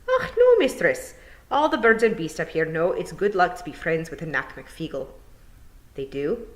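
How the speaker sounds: sly wee Scottish pixie confiding; lightly voiced Feegle. Feegle explains luck.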